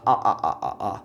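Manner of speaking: short, low "Ah, ah, ah" like a mock laugh; laugh-like vowels. Shown as a demonstration. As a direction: chop "Ah" into separate laughing beats. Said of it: "Think about how someone would laugh".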